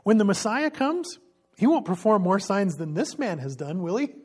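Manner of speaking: high, loud, eager question; excited believer. Acted. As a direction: marvel out loud like a convinced follower. Believing crowd, excited quote.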